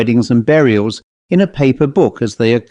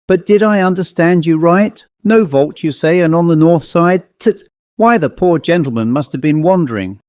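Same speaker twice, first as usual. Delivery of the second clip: a touch of shock in the clerk's voice; lightly voiced clerk, mildly scandalised; 5 semitones higher than usual. Clerk questioning the rector's orders, mildly shocked. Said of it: "in a shocked voice".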